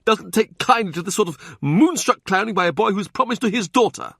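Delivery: sneering prelate talking down to a man; Cardinal Wolsey voice. Acted.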